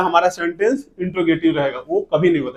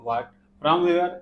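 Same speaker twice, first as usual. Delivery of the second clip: very slow, word by word; slow dictation; 4 dB quieter, much slower than usual. Shown as a demonstration. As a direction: dictate each word slowly. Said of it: "teacher dictating word list". (धीरे-धीरे लिखवाना)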